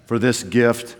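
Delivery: low, solemn pulpit voice; preacher voice. Retold or imitated. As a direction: put on the formal pastor voice. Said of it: "I put on my preacher voice".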